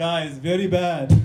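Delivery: put-on Indian accent. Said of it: "why your parents have Indian accents".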